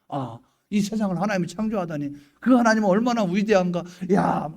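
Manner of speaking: marvelling, building in force; acted awe. Believer overwhelmed by how great God is, acted wonder. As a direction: build from musing to exclamation.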